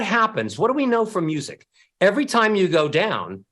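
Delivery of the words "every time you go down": falling melody; melody sinks at the end; going down. Shown as a demonstration. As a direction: let the line drop down in pitch. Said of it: "you sound sad".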